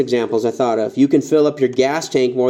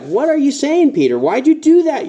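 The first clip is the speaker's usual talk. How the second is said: high, exasperated "what are you saying"; mock the disciples' confusion; higher mock-bewildered questioning; bewildered disciples; 10 semitones higher than usual. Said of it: "They were kinda crazy".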